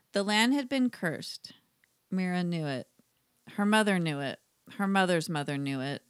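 measured storybook reading; story narration. A narrator's reading. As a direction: read it aloud as a solemn little fable. Reads a listener's story aloud.

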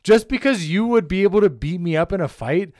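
loud, worked-up alpha-male bragging; hammed-up rich alpha rant; mock alpha boasting. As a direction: brag loudly like a self-styled alpha.

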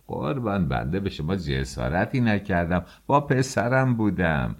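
grovel to the official to avoid trouble; pleading. Acted. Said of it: "به التماس گفت".

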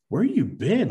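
a worried wife snapping a question down the phone; wife demanding. Retold or imitated. Wife on the phone asking where he's been, high and pressing.

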